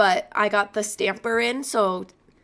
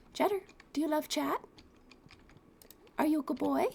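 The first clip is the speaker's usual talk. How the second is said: high, softer cooing question; 7 semitones higher, 5 dB quieter, faster than usual. Real, not acted. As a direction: sweetly ask the cat. Cooing at her cat.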